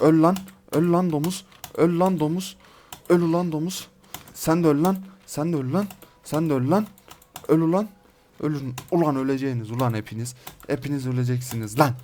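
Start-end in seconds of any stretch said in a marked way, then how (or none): 0.0-8.7 heated, repeated kill shouts; worked-up combat yelling; battle cries. Real, not acted. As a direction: shout it with every blow, ending on a rise. Killing enemies in game battle.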